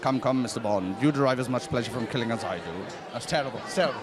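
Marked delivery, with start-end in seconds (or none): 0.0-2.6 low, softer villain voice; Bond villain impression. Shown as a demonstration. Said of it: "Do some impression".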